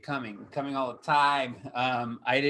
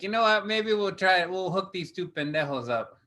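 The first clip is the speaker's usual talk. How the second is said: mock sponsor voice; 6 semitones higher than usual. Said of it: "they were like".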